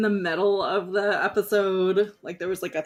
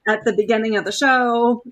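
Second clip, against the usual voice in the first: excited; 5 dB louder than usual. Retold or imitated. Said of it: "So, like".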